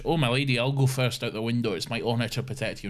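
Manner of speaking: a hint of Scottish gallantry; half-hearted Scottish, quickened at the end; light Scottish accent. Scottish bloke offering to climb out first, lightly accented. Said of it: "I don't know his Scottish".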